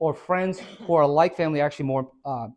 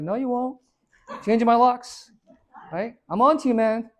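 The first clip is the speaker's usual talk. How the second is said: higher, laughing brush-off; mock refusal; 8 semitones higher than usual. Derek brushing off the energy vampire, higher and laughing. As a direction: joke your way out of it.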